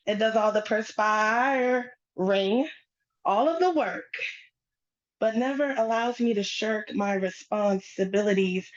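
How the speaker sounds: measured phrases with pauses between them; spoken-word poetry. Acted. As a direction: recite it as a poem on stage. Performs her spoken-word poem.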